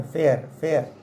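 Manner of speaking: फेयर and फेयर said with the identical sound, showing the two words match; teacher tells the class both words sound alike, then says फेयर twice the same way. Shown as a demonstration. Teacher shows students the homophone फेयर twice, identical. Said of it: "pronunciation same है".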